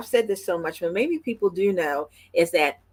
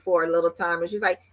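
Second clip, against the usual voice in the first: normal talking voice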